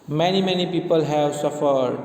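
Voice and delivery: MANY, MANY PEOPLE HAVE SUFFERED, slowly, word by word; stress on each word. A narrator's reading. Lawyer confronting the robot, mildly stressing each of "Many, many people have suffered". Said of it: "stress each word".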